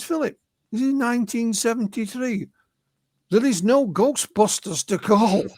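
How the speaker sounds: half-hearted Mississippi accent on a retold reply; attempted Mississippi accent. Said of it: "I can't do a Mississippi accent".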